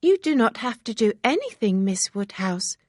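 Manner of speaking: excited chatter; Harriet, eager and girlish. Acted. Harriet reassures.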